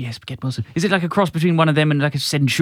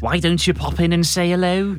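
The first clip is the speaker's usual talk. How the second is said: Sheikh Vizier; 3 dB louder than usual. Acted. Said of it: "Sheikh Vizier says".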